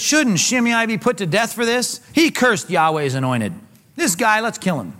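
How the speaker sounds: acted hot-headed accusation; indignant demand. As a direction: call for his head, incensed. Acting Abishai demanding Shimei's death.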